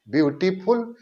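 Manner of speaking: ब्यूटीफुल with a short break inside; broken into syllables. Shown as a demonstration. Teacher repeating the example to show a break, ब्यूटीफुल lightly divided. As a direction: lightly split ब्यूटीफुल into its parts. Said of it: "बीच में एक break आ रहा है".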